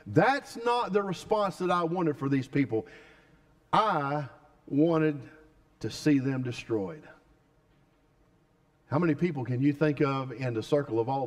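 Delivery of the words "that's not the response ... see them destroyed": preacher acting Jonah resenting God's mercy; sulking Jonah. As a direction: grumble at God like a resentful prophet. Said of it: "Jonah said".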